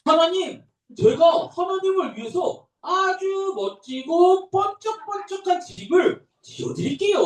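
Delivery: a king eagerly offering God a shining house; eager King David. Acted. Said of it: "어떤 걸 결심했냐?".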